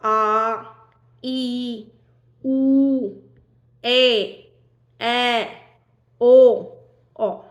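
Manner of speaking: आ, ई, उ, ए, ऐ, ओ, औ each held long; long vowels. Shown as a demonstration. Teacher counts seven long vowels, each drawn out. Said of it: "दीर्घ स्वर हैं वो सात हैं".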